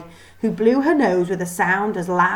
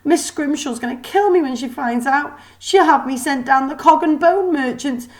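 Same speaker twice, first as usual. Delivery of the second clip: high, shaky-sounding robot maid voice; a sniffling servant caught crying; the maid apologizes, upset and flustered; tearful mechanical maid; 7 semitones higher than usual. Acted. Molly's panicked lament.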